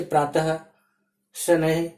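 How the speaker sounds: "प्रातः, शनैः" each ending in a breathed h sound; visarga as h. Shown as a demonstration. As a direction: end "प्रातः" and "शनैः" on an audible h. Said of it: "ह के समान होता है".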